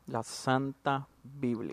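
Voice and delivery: slow, hushed, solemn naming; mock reverence. Host answering what evangelicals idolize, mock reverent. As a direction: intone it softly and slowly, as if sacred.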